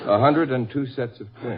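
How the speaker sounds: laughing repeat. Real, not acted. Officer repeats claim laughing.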